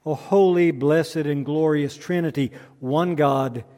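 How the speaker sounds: measured, reverent litany with falling line ends; solemn prayer. Acted. Litany prayer before the sermon.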